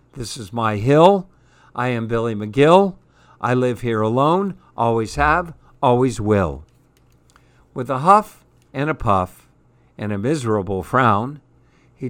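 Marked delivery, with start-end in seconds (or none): 0.1-6.7 angry roar. Acted. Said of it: "Billy roared".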